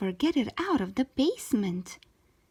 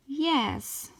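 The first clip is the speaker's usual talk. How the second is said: bawling; 6 semitones higher than usual. A narrator's reading. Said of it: "I bawled".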